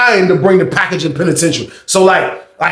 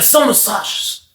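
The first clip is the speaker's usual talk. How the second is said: softer and slow, pulling back a near-scream into a hush; 4 semitones higher, 6 dB quieter, slower than usual. Retold or imitated. Guard catching himself, naming the snack in a slow hush. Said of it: "he was about to scream and he got quiet".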